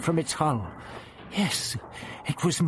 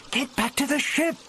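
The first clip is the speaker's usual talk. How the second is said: higher, urgent desperate cry; desperate yell; 13 semitones higher than usual. Acted. Ian in the web yelling at the Doctor, desperate. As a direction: plead him away, desperate. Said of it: "He yelled again desperately".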